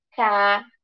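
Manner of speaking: "caráter" split into ca, rá, ter; syllable by syllable. Shown as a demonstration. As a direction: break "caráter" into three separate beats. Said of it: "ele se classifica em".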